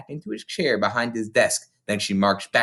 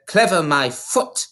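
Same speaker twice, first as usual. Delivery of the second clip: shouted; 6 semitones higher, slower than usual. A narrator's reading. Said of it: "the Trunchbull shouted".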